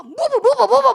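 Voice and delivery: high, quick move-move urging; hurrying child. Retold or imitated. Mother urging her child to hurry, high and quick. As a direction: rush the kid along.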